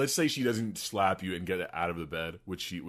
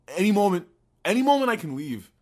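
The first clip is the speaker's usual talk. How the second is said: higher and louder mock defiance; defiant; 5 semitones higher, 3 dB louder, faster than usual. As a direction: declare you can walk away any time. Voicing his defiant inner stance.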